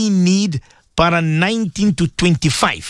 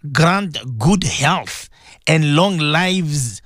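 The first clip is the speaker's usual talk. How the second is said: drawn out, slow devotional plea; slow prayer; 3 semitones lower, much slower than usual. Acted. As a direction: stretch each word in prayer. Reads the intention slowly.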